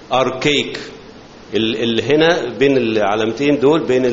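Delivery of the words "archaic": "Archaic" said slowly as AR-kay-ik, every syllable clear; pronouncing archaic. Shown as a demonstration. Teacher shows students how to pronounce the word, carefully. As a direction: model the word "Archaic" for the class to copy. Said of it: "ودي إزاي ننطقها".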